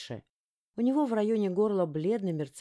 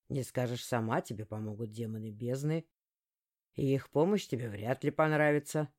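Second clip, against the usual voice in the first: venomous threat; 5 semitones lower than usual. Acted. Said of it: "ядовито припечатал тёмный".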